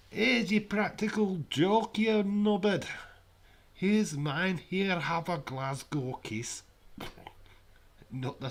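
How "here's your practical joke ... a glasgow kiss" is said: loud, higher mock Edward, slowed down; brash Edward voice, half-shouted; Edward impersonation. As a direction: ham up a rowdy mate threatening a headbutt. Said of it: "That's my impersonation of Edward".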